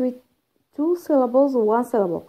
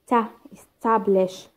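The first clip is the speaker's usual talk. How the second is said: TA alone, then "Establish" stressed on TAB; stressed syllable shown; slower than usual. Shown as a demonstration. Teacher showing where stress falls, TA first then "Establish". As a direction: isolate TA before saying "Establish". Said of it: "How يجي هنا stress".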